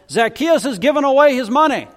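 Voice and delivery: a messenger bursting into the homeless camp with good news; excited announcement. Acted.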